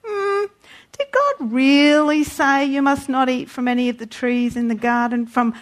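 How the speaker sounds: a lightly voiced crafty serpent; the serpent tempting the woman, sly. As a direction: sow doubt, insinuating. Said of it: "He said to the woman".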